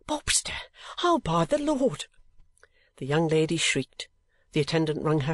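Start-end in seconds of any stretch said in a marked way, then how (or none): 0.1-0.6 a sharp, high, breathy gasp of a name; abrupt frightened exclamation. A narrator's reading. Newman blurting the rival's name in fright. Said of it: "to exclaim abruptly". 1.0-2.1 put-on high, strained voice of an alarmed old man; panicked old clerk. A narrator's reading. Newman crying out as the knocking starts, panicked. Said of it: "with a face of ashy paleness".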